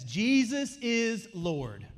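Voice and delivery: slow, ringing declaration; slow loud proclamation. Real, not acted. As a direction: declare it as final truth. Proclaims the confession.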